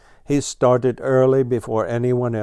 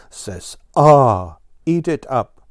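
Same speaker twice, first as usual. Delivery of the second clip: coaxing parent; 3 semitones higher, 7 dB louder than usual. Acted. Blue Jay feeding children.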